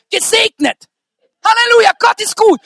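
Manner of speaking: loud, high halleluja; exultant shout. Real, not acted. Preacher praising God, shouting high. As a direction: burst out in praise.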